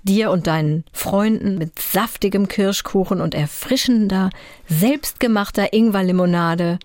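langsame, ausmalende Erzählstimme; erzählende Fantasiereise. Acted. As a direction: lade die Zuhörerin in eine Abenteuergeschichte ein. Malt eine Enid-Blyton-Szene aus. (Erzählstimme zum Miterleben)

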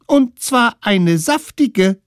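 put-on very high, loud, slow tiny-kid voice; tiny kid adding with relish; smallest one's voice. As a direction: add it gleefully like the littlest one. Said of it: "ergänzte der Allerkleinste".

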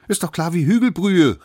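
high, loud little know-it-all; cocky shout. A narrator's reading. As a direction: call it out as the smallest one. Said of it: "rief der Allerkleinste". (hoch und vorlaut gerufen)

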